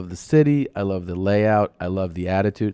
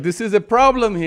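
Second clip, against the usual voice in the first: mock alarmed crowd; 13 semitones higher, 4 dB louder than usual. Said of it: "they were like".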